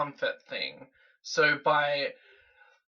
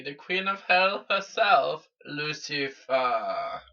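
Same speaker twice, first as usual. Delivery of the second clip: louder, slow proclaiming of the title; grand villain announcement; 5 dB louder than usual. Acted. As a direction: proclaim it like a dark queen. Grand self-introduction as Lucifer.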